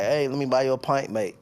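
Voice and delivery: light mock Irish accent offering a pint; a lightly put-on Irish pub accent. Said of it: "that's your best Irish accent?".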